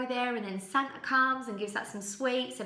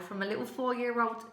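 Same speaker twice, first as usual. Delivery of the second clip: usual speaking voice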